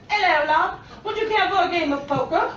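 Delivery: lightly voiced cheeky shark; hint of a sly shark character; talking shark. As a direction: play a chummy card-shark inviting someone in. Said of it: "popped his head over my door and said".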